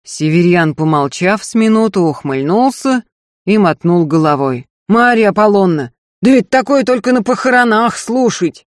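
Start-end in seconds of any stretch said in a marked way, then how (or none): 4.9-8.6 higher, louder mocking plea; a jeering companion asking for a march; teasing request.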